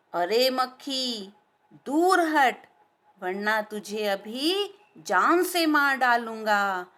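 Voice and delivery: slow, threatening shout from the lion; angry lion roar. Acted. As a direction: bellow the warning at the fly, spacing the words. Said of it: "वह दहाड़ा". (गुस्से में दहाड़ता शेर, धीमी धमकी भरी आवाज़)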